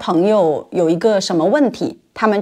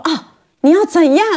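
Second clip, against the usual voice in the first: mock angry man; 7 semitones higher, 3 dB louder than usual. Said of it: "台湾男人生气了".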